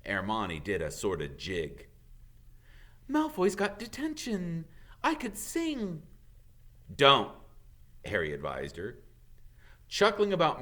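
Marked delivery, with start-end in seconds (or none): 3.1-6.0 very high delighted voice; gleeful Hermione. Acted. Hermione gloats over Malfoy, high and gleeful. 6.9-7.3 loud short warning; firm warning. Acted. Harry stops Hermione singing, firm loud.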